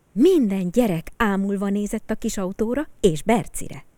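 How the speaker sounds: usual speaking voice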